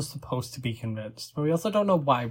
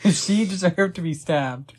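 words breathed out through laughter; whispered through giggles; laughing whisper; 3 semitones higher, 3 dB louder than usual. Real, not acted. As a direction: joke it while still laughing. Said while still laughing.

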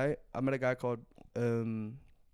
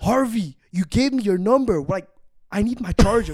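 higher, louder frustrated plea; exasperated plea; 6 semitones higher, 8 dB louder than usual. Retold or imitated. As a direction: insist you just need the charger. Pleading with girl on phone.

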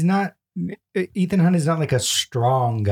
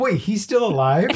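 slightly higher, mock surprised question; imitating surprise; 6 semitones higher than usual. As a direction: quote her shocked moment lightly. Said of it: "you said".

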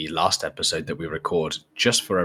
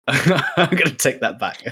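laughing; 5 semitones higher, slower than usual. Real, not acted. The speaker laughs at his own retraction.

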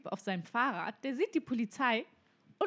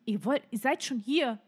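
raised, indignant demand at the cops; retold angry outburst; 4 semitones higher, 3 dB louder than usual. Friend telling off the police, angry and loud. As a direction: push it louder, fed up. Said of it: "Sie so".

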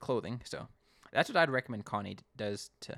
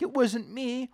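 mock denial; 12 semitones higher, 4 dB louder, slower than usual. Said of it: "Connie's like".

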